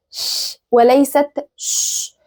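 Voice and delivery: first "ش" as airy German ch, second "ش" as plain sh; ich-sound versus sh. Shown as a demonstration. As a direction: slowly contrast palatal "ش" with ordinary "ش". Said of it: "ما ينفعش إن أنا أعملها كأنها شين عادية".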